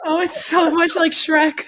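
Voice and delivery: loud, high, laughing through words; cracking up while talking. Real, not acted. Laughing at friend's impression.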